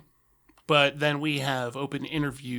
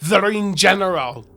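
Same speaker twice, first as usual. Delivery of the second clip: loud, higher mock-Austrian announcement; Austrian wrestler; 6 semitones higher, 11 dB louder than usual. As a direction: boom out the title with an Austrian accent. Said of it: "he, he sounds kind of".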